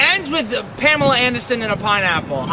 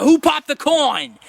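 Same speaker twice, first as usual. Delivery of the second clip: catchphrase; 5 semitones higher, 4 dB louder, slower than usual. Retold or imitated. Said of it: "and be like".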